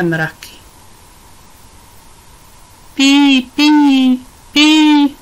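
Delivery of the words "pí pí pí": mnohem výš a nahlas, vábivé volání; vábi kanárka, ať se vrátí z nebe; volání na ptáka. A narrator's reading. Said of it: "volala Pipa". (Pipa volá k zataženému nebi na uletěného kanárka)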